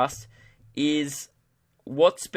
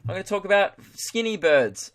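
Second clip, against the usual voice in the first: higher, louder podcast link; segment demo hand-off; 5 semitones higher, 4 dB louder than usual. Shown as a demonstration. Host demonstrating the segment's end, presenter delivery. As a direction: move the show briskly on to the next topic. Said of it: "so that was what it would sound like".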